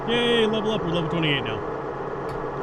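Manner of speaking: bright cheer for a level up; excited. Real, not acted. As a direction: celebrate the level up.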